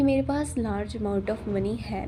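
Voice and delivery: slow, easy and unhurried, like everyday chat; calm, relaxed affirmation. Shown as a demonstration. Calmly affirming money to herself while showing viewers how. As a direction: say it as if you already have the money, slowly. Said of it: "मैं आराम आराम से बोल रही थी".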